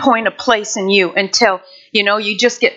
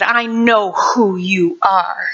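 wicked voice again; 2 semitones lower, slower than usual. Retold or imitated. The voice behind the curtain repeating, slow and menacing. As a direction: drag it out darkly. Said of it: "that same voice said".

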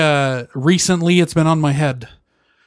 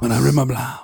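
mock Spanish accent; hammy Spanish-accented movie line; Nacho Libre. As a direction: quote it in a bad Spanish accent. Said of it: "like Nacho Libre style".

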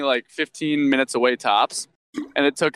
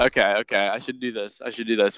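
too close to mic; 5 semitones lower than usual. Real, not acted. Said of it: "You sound great when you're doing that".

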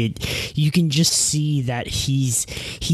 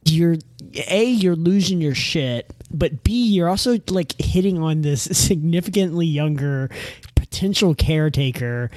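imitating exasperation in a higher pitch; mock exasperated telling-off, pitched up; 5 semitones higher than usual. Caretaker fed up with his flirting, imitated exasperation. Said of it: "she just seems so exasperated".

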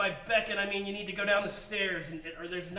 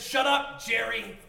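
snapping; 2 semitones higher, 5 dB louder, much slower than usual. Acted. Rick snaps at Jerry.

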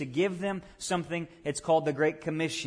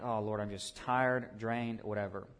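tired sigh to God; 5 semitones lower, 6 dB quieter than usual. Retold or imitated. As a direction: let it sag like you're drained. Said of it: "I'm like".

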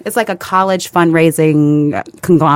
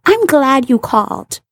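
put-on sweetly condescending older lady, pitched up; older woman voice; 4 semitones higher than usual. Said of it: "And this woman says".

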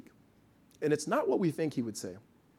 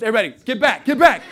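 louder, laughing "get back!"; laughing mock alarm; 5 semitones higher, 11 dB louder, faster than usual. Parent joking to the sideline about the cry coming, loud and laughing. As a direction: warn everyone off through a laugh.

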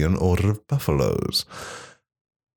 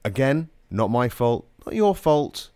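like talking underwater. Real, not acted. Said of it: "sounding like you're underwater in the nineties".

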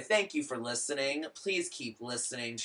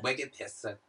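put-on echoed Boston accent with dropped r; 5 dB quieter than usual. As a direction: copy the slangy Boston accent. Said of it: "That's my Boston accent".

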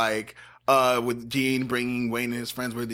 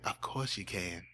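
low, soft nasal Southern voice; understated country twang, lower and quieter; Dean Sessions; 4 semitones lower, 7 dB quieter than usual. Acted. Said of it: "didn't sound as nasally as Dean Sessions".

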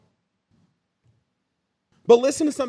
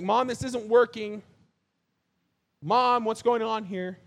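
nasal whine; slower than usual. Retold or imitated. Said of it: "I was kind of a whiny kid".

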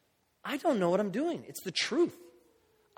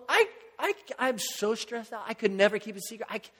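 higher, stammering self-mockery; halting, amused confession in retelling; mock laughing at himself; 4 semitones higher than usual. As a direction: imitate someone too amused to finish. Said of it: "Just laughing at himself".

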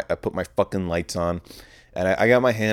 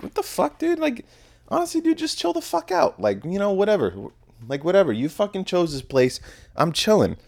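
mock exasperated; 10 semitones higher than usual. Mocking his own retort to friends.

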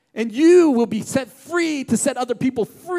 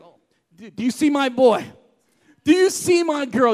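proud excited parent; 2 semitones higher, 5 dB louder than usual. Pretend. God voiced as proud parent.

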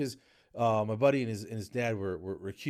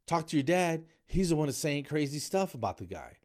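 higher, louder indignant protest; defensive protest; 6 semitones higher, 3 dB louder than usual. Retold or imitated. To his angry buddy, blaming the dad, indignant. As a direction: push the blame back, stammering. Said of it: "and I'm like".

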